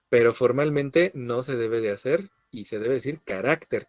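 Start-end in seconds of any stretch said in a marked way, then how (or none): 3.2-3.9 "carácter" stressed on RAC, the middle syllable. Shown as a demonstration. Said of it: "con acento en la A". («carácter» con acento en la segunda A)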